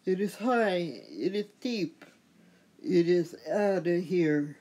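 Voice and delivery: lightly voiced announcer home run call; a hint of a sportscaster, drawing out the last line; Duane Kuiper home run call. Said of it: "as my favorite commentator, Duane Kuiper, would say".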